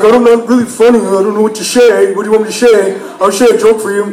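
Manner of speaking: flustered brother, "say" as "shay"; brother's slurred S. Retold or imitated. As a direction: imitate a lisping brother protesting. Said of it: "the way he says his S's".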